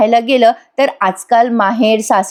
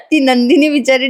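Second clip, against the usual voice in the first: real laughing; 3 semitones higher than usual. Real, not acted. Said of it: "मला इतका हसू आलं".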